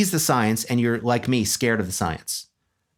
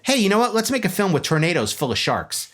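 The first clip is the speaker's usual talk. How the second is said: eager pitch; 6 semitones higher than usual. Acted. Acts out a film pitch.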